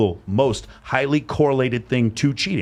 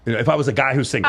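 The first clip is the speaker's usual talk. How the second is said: laughing correction. Real, not acted. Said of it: "If you were a guy?".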